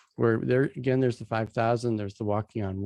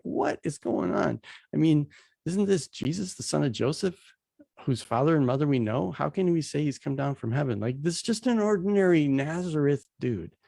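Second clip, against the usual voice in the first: higher-pitched, disbelieving mock outrage; incredulous leaders; 4 semitones higher than usual. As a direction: act out the baffled leaders. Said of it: "the leaders are like".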